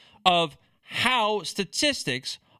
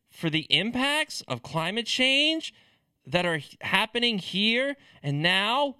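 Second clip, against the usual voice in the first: hyperbolic liberal; 3 semitones higher than usual. Retold or imitated. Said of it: "with the inflection of a hyperbolic liberal".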